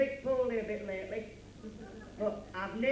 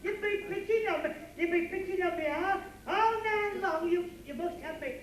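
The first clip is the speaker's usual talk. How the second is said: hammed-up blubbering, pitched up with laughs breaking through; mock crying; 5 semitones higher than usual. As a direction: play a big baby whining through fake tears. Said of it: "What are you crying for?".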